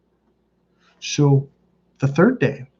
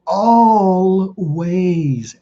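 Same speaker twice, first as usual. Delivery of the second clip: "always" drawn out very slowly, pitched up; emphatic stretched ALWAYS; 5 semitones higher than usual. Real, not acted. Coach insisting they're always asking for meaning, "always" stretched emphatically. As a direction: stretch both syllables of "always" long.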